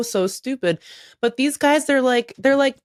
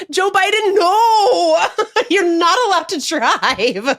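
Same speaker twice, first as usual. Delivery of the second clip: high, louder scolding broken by laughter; laughing mock scold; 11 semitones higher, 5 dB louder, slower than usual. Aides catching the president driving, laughing mock scold. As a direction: scold him while cracking up.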